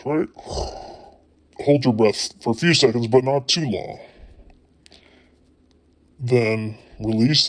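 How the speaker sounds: unhurried relaxation-guide voice with long pauses; guided relaxation. Acted. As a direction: lead them gently through breathing, leaving space. Leads a relaxation exercise.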